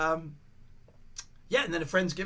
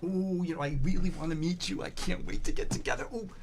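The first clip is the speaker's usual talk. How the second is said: mock gentle excuse-making; gentle brush-off. Imagined caller putting off a meeting, imitated gentle brush-off. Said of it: "gently be like".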